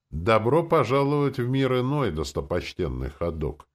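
a touch of pompous ceremony; solemn proclamation. A narrator's reading. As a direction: proclaim it grandly with a hidden smirk. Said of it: "торжественно провозгласил он, не тая усмешки".

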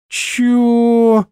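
put-on high drawn-out drunken "what"; drunk drawl. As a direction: stretch it out like a drunk. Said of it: "протянул тот пьяным голосом".

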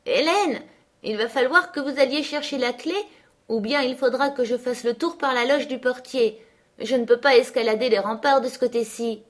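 put-on high, bright girl calling over the wall; calling out laughing. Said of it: "l'entendis rire et me crier". (fille qui appelle en riant, voix plus haute)

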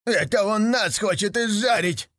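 a hint of frightened little devils; scared devils. A narrator's reading. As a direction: fear being cooked. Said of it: "испугались черти".

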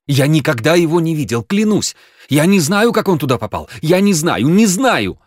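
frantic pleading denial; panicked denial. A narrator's reading. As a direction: blurt it out terrified. Genka panicking, swearing innocence.

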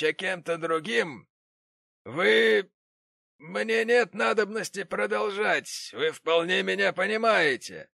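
high, loud, slow contempt; haughty gentleman. Acted. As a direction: insult him with pompous disdain. The gentleman's insult.

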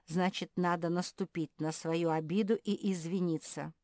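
urgent peacemaker's plea; pleading. A narrator's reading. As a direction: reason with them imploringly. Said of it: "взмолился Филипп".

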